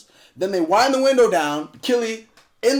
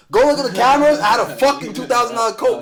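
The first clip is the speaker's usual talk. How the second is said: yelling; 4 semitones higher, 3 dB louder than usual. Retold or imitated. Yelling at bouncers for his coat.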